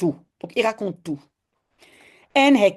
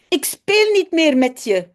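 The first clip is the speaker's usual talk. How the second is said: Janneke's shout, a bit louder and higher; mock shout; 5 semitones higher, 5 dB louder than usual. Janneke tells Jip she won't play, mock shout. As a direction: call it out like an upset little girl. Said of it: "schreeuwt Janneke".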